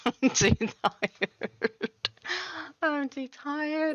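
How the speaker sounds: slow, weary and drowsy; tired voice. Retold or imitated. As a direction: drag it out like you're exhausted. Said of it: "I was just like".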